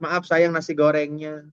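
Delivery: slow, level wifely apology; meek, unraised voice. Acted. Wife serving food apologises to husband, meek and unhurried. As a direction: draw it out evenly, without raising the voice. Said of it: "tidak meninggikan suara".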